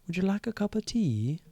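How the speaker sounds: put-on hushed, posh-ish British accent done for laughs; British accent attempt. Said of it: "I can try to do, like, a British accent".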